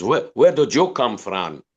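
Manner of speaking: put-on a light, slow stab at a Spanish accent; half-hearted Spanish barman voice, drawn out. Pianist quoting the bored Spanish barman, a light Spanish accent. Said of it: "I'm not very good at a Spanish accent".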